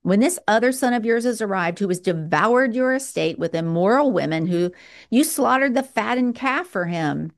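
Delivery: put-on resentful older brother. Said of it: "look at the resentment".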